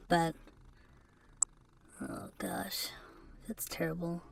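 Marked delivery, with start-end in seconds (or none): 2.0-4.2 hushed oh gosh to yourself; whispered dismay. Real, not acted. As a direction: mutter it under your breath, appalled at yourself. Dismayed at his own image.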